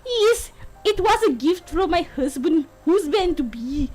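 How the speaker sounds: attempted Scottish lilt; Scottish accent. Bride explains her husband's gift, in an attempted Scottish accent. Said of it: "could do a Scottish accent".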